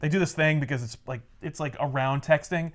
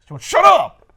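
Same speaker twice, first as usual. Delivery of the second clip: high, louder whining complaint; mock whiny rant; 10 semitones higher, 10 dB louder than usual. Peter griping about Mary Jane, high mock whine. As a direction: whine it like a bratty teen.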